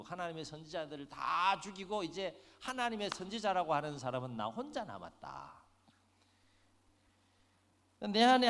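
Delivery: loud, wounded protest of a prophet left alone; aggrieved complaint. Retold or imitated. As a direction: pour out a bitter grievance to God, voice climbing. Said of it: "이런 심정 가지고 하나님 앞에 하소연해요".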